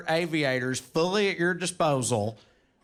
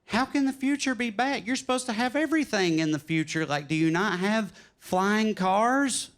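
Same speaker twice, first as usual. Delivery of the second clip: put-on higher-pitched puzzled kid; incredulous younger self; 4 semitones higher than usual. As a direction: protest in disbelief. Younger self questions the traveler.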